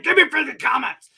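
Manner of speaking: high, loud, hammed-up whining plea; mock pleading. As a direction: beg like a whiny kid. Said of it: "I'm just kidding".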